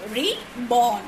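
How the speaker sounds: "reborn" split into re, born; two separate beats on "reborn"; syllable by syllable. Shown as a demonstration. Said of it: "It's two syllable".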